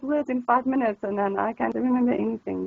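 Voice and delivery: playfully hammed-up eager learner; overexcited beginner overwhelmed by new words; mock excited learner. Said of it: "You don't, like".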